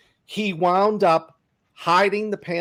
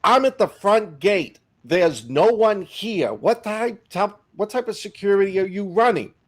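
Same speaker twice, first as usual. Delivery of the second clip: Eisenhower; 4 semitones higher than usual. Retold or imitated. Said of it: "And he goes".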